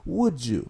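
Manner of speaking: "Would you" blended into "wood-joo"; linked with j sound. Shown as a demonstration. Teacher repeating the sound for learners, "Would you" as "wood-joo". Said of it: "como una pequeña jotita en inglés".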